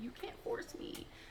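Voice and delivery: small, hushed, soft whisper.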